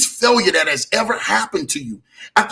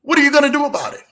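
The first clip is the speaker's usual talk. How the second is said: higher and pushed out, a preacher's challenge; raised challenge; 7 semitones higher, much faster than usual. Acted. Preacher challenging his listeners after a pause, raised and high. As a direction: throw it at them as a call. Sermon question posed twice.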